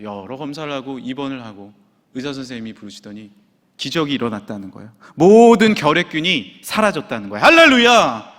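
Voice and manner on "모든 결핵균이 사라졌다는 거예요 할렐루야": loud preaching climax rising into a shout; triumphant proclamation. Real, not acted. Preacher announces wife's miracle cure, triumphant shout.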